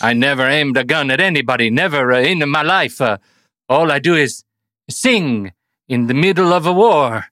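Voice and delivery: a mild mock Italian accent; lightly hammed-up Nicolas Cage as an Italian; bad Italian accent. Shown as a demonstration. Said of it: "a Nicolas Cage in the Captain Corelli's Mandolino".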